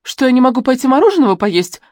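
дерзко и выше обычного; с вызовом, громче; вызывающе. A narrator's reading. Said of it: "вызывающим до дрожи голосом". (с вызовом, дрожа от злости)

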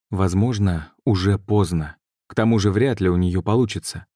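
ordinary delivery

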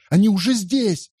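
very high panicked cry. A narrator's reading. Andrea to the room: very high panicked cry. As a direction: cry out that they've arrived.

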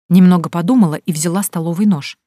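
ordinary talk, nothing marked

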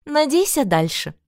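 high, satisfied; lightly voiced pleased mother. A narrator's reading. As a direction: toss it back, smug and high. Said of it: "довольно заметила леди Арн".

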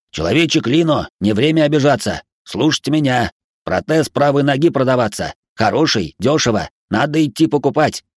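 insistent high robot voice. Acted. Robot Spy urges buying.

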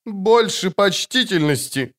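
high, slow indignant cry in a breaking voice; lady demands respect from bandits, voice cracking; cracking shout. A narrator's reading. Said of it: "крикнула ломким голосом дама".

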